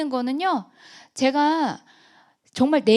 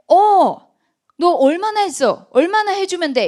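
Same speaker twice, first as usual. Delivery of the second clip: excited loud question; 5 semitones higher, 9 dB louder than usual. Retold or imitated. Retold phone call with friend.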